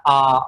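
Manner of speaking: "a" as a low, drawn-out Tamil-style ending; dragged Tamil-accent ending. Shown as a demonstration. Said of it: "accent of dragging and ending with the".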